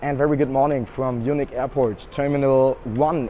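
lost voice, hoarse and strained. Real, not acted. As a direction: talk through a shot voice. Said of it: "As you can probably already hear, I have no voice at all".

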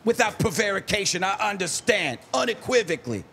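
Stephen A. Smith. Retold or imitated. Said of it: "Stephen A. Smith predicting".

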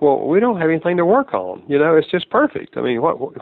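mild mock euphoric confidence; lightly voiced smitten lover. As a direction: play the blissful one who sees no flaws. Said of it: "you think".

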